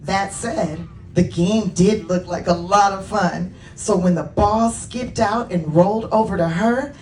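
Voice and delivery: animated storybook reading with lifted key words; children's story narration. A narrator's reading. Author reading Layla's story to children, animated narration. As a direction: read it to children, expressively. Reads own book to children.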